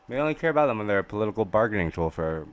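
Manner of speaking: talking while chewing gum; words round a piece of gum. Real, not acted. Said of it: "I'm chewing gum right now".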